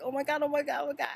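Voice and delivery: high, loud panicked cries; panicked oh my God. Retold or imitated. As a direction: shriek it in alarm at the animal. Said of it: "I was like".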